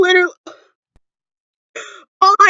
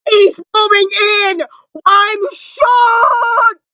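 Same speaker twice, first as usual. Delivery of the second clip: excited shout; 2 semitones higher, much slower than usual. Real, not acted. Fan repeating the big news, excited shout. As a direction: shout it at the camera. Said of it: "the loudest you will ever hear me".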